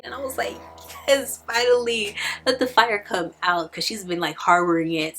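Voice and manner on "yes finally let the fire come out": higher, louder excited reaction; cheering on. Retold or imitated. Reader cheers as Jane professes her love, excited. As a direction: cheer like a fan finally getting the payoff.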